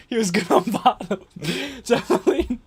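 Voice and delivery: name said through laughter; laughing. Real, not acted. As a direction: giggle out the name.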